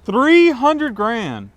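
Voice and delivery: high, slow stunned echo of the price; shocked disbelief. Real, not acted. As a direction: repeat the price in total shock.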